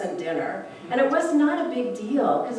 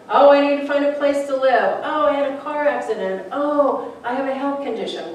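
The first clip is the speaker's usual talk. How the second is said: higher, louder anxious complaints; mock fretting; 5 semitones higher, 4 dB louder than usual. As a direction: play the worried everyday person. Mock list of life's troubles.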